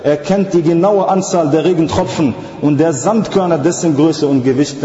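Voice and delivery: insistent sermon cadence; emphatic religious oration; rhythmic preaching. Real, not acted. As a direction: preach it as a measured, driving list.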